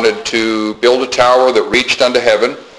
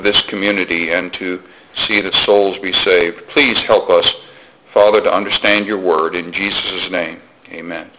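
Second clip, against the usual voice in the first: measured, reverent prayer, settling lower; congregational prayer; 3 semitones lower than usual. Real, not acted. Preacher asking God's blessing on the congregation, in measured prayer. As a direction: pray aloud for the church, evenly phrased.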